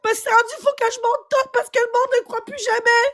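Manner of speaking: real distressed insistence; upset protest. Real, not acted. Upset protest while arguing with listener.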